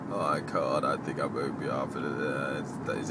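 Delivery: lightly faked sick voice; fake sick voice. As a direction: feign being sick on the phone. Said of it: "pretend like she's sick with this sick voice".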